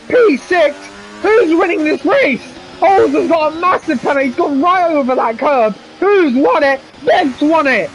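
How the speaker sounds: excited motor racing play-by-play; live race commentary. Real, not acted. Commentator calling the battle for the lead, excited. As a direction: call the race with urgent excitement.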